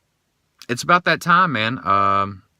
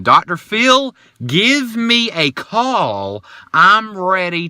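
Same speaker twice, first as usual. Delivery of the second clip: calling out; 8 semitones higher, 4 dB louder, slower than usual. Real, not acted. Calling out to Doctor Phil.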